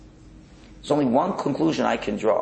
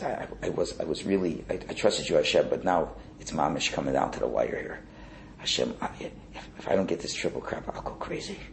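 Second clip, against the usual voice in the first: panicky plea; 4 semitones lower, 5 dB quieter than usual. Acted. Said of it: "a panic attack".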